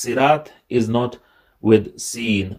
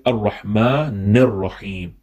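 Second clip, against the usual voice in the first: slow, measured Quranic recitation; slower than usual. Acted. Teacher recites the ayat for students, slow and measured. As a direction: recite slowly, letting each word ring.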